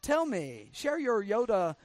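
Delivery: mock grateful, sarcastic plea; sarcastic mock pleading. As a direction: fake humble thanks, dripping sarcasm. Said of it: "that's sarcastic".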